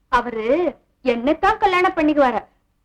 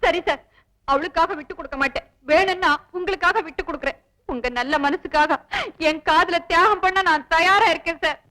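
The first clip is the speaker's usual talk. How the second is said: fake tearful pleading. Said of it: "பிரமாதண்டி உன் நடிப்பு".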